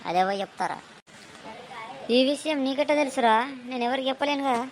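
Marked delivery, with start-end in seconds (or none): 2.1-4.6 surprised. Acted. Surprised villager questions friend.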